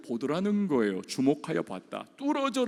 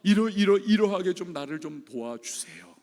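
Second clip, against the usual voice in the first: urgent plea; 3 semitones higher, 6 dB louder than usual. Retold or imitated. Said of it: "하나님 앞에 바라는 뭔가가 있습니다".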